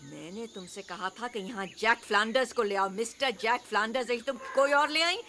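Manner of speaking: fast indignant scolding; angry scolding. Acted. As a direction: scold her for the wrong man. Aunt scolding niece, fast.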